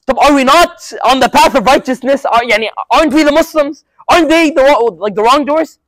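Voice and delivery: a hint of Umar's frustration, pressing hard; lightly voiced indignant companion; retold anger. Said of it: "And he's mad".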